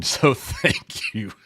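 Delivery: slow thanks through a real laugh. Real, not acted. Streamer laughing at his own joke to Bobby, laughing. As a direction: laugh as you thank him. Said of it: "I'm laughing 'cause I said that".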